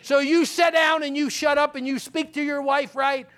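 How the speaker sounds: a mother putting her grown son in his place; stern mom. Retold or imitated. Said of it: "she would say".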